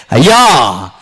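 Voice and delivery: a loud, aching cry of అయ్యా with a falling tune; tearful plea. Acted. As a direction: call out అయ్యా to God in grief. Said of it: "దేవునికి ఇంపైన దుఃఖం".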